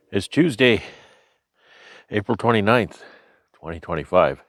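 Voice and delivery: breathless through a respirator; short of breath, talking between breaths. Real, not acted. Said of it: "This is why I sound like I'm out of breath".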